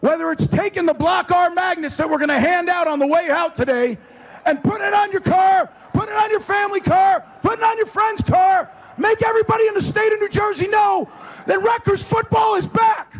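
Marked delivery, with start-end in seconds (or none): 4.5-13.1 rousing shout. Real, not acted. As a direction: build the crowd up. Coach urging fans, building up.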